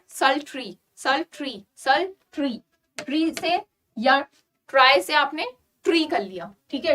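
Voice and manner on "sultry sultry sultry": sultry ending in ri like tree; pronunciation demo. Shown as a demonstration. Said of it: "ट्री से ट्राई नहीं पढ़ना है".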